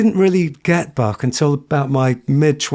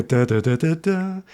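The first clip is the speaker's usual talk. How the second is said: soft sung da's; beautiful singer; 4 dB quieter than usual. Shown as a demonstration. Teacher singing like a beautiful singer. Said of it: "imagine a beautiful singer".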